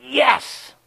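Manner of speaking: high mock yell, not full volume; retold scream. Man screaming to God in desperation, imitated. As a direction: cry it out high, held back in volume. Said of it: "I just screamed".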